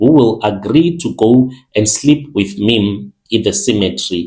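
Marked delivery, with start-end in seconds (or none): none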